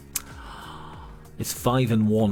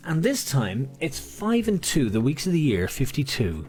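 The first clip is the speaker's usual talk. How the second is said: bingo caller; 4 semitones higher than usual. Acted. Bingo calling.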